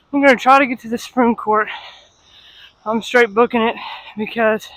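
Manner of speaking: heavy breathing while walking fast; winded, talking on the move. Real, not acted. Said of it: "Sorry for the heavy breathing".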